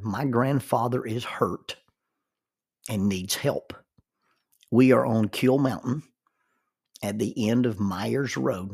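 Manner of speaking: a slow, deliberate read with pauses between the phrases; slow careful reading. Shown as a demonstration. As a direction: read it out slowly like a boy on the phone to rescuers. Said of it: "he's supposed to read that very slowly".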